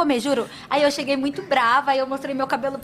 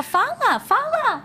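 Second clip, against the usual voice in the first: rising, insistent "Fala, fala", each higher; mock demanding; 10 semitones higher, much slower than usual. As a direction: push him to talk, climbing up. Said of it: "Eu fico muito brava".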